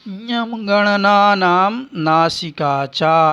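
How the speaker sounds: slow, deliberate chant of ऋतुरसाणाम मूर्धा; sutra recitation. Shown as a demonstration. Teacher reciting the Sanskrit rule slowly for students. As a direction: lay out each syllable of the sutra slowly.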